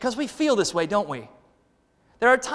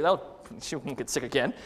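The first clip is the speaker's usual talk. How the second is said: normal talking voice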